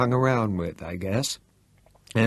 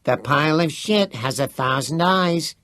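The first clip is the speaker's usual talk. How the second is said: higher, mock-solemn pronouncement; serious; 6 semitones higher than usual. A narrator's reading. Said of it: "Teddy said seriously".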